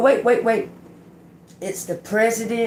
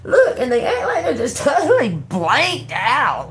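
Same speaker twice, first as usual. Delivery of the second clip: laughing; 7 semitones higher, 4 dB louder than usual. Real, not acted. Laughing at her own story.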